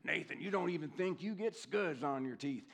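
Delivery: put-on mentor's line in a lightly done Alabama accent. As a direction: mentor teasing the young groom, in an Alabama accent. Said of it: "In this Alabama accent".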